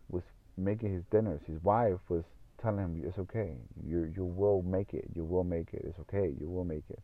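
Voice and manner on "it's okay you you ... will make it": soft, lightly imitated reassuring voice; gentle reassurance. Wife telling her struggling husband he'll make it, gently reassuring. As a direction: retell a supportive wife's comfort, softly.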